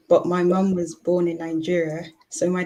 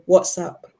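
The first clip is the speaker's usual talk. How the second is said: imitating mum's Nigerian accent, louder than the plain take; 4 dB louder than usual. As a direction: say it as a Nigerian mum would. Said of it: "she'll say".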